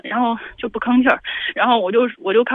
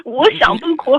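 real tearful protest, higher voice; crying; 4 semitones higher, 4 dB louder, slower than usual. Real, not acted. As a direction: try to answer while crying. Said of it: "那你能不能不哭". (哭着说)

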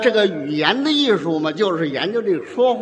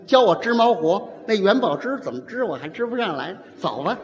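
lightly voiced peacemaker. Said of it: "他就向着那女的说这男的不对".

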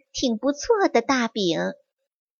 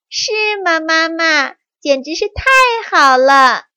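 higher, gleeful little mice; delighted kids; 5 semitones higher, 5 dB louder than usual. Acted. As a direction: squeal with joy. (小老鼠们高声欢喜)

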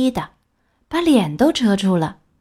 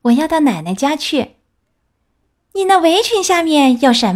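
a hint of a chatty little girl, higher; lightly voiced little girl; 4 semitones higher than usual. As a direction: play her innocent and eager. Girl voiced through dialogue. (小红帽天真地回答，声音略高)

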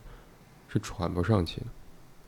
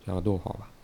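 dictating punctuation; faster than usual. Shown as a demonstration.

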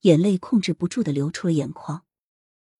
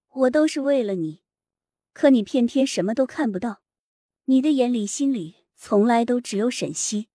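higher, anguished pleading cry; 5 semitones higher than usual. Acted. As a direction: cry it out heartbroken. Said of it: "撕心裂肺的哭喊出声".

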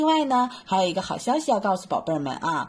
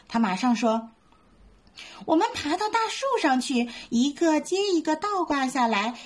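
lively bedtime story reading; storytelling for kids; 2 semitones higher than usual. A narrator's reading. Mom reading a bedtime story to little ones, lively.

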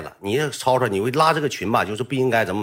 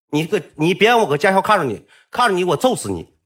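higher-pitched mock threatening; retold threat; 5 semitones higher than usual. Two classmates threaten him in the group chat, mock menacing. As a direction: imitate a mildly heated warning.

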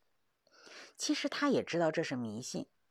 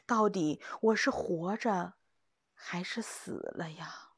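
fading fearful plea; slower than usual. Acted. Fearful question trailing off.

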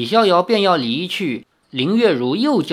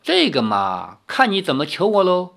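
haughty; 3 semitones higher than usual. Acted. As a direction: make them beg for the favour. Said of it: "高高在上的说".

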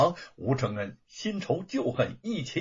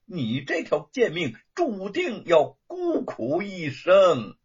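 high and loud, spitting contempt; vicious curse; 6 semitones higher, 6 dB louder than usual. A narrator's reading. Luo Pang cursing Wu's lonely fate, vicious. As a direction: curse him with malice. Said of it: "恶毒地诅咒着".

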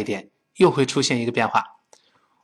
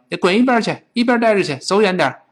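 higher-pitched, hammed-up shooing away; mock brush-off; 5 semitones higher, faster than usual. Teacher mocks a wrong translation, mock brush-off. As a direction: playfully tell them to get lost.

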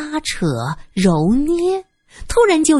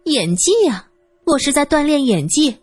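talking through giggles, higher; breathless laughter; 7 semitones higher than usual. Acted. 尹玉珍 brags about her acting, laughing breathlessly. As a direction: laugh so hard you can barely speak. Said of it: "尹玉珍笑得喘不上气儿".

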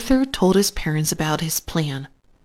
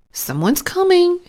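high-pitched cry of alert; excited cry; 12 semitones higher than usual. A narrator's reading. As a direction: call out the news excitedly. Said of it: "he cried".

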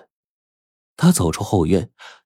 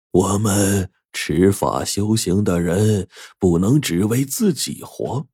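slow, measured master's lesson; old master teaching. Acted. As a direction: instruct the disciple slowly. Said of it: "法师对着扇子说".

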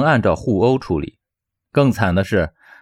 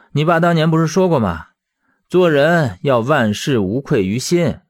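higher-pitched, earnest reassurance; consoling; 4 semitones higher than usual. Acted. Teacher calming his angry old friend, consoling. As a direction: soothe him, ending on steady conviction. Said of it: "他反倒安慰起了魏正义".

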